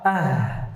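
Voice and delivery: AH with the H let flow out; flowing final H. Shown as a demonstration. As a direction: let "Ah" run on into breath. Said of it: "sifat rokhawah".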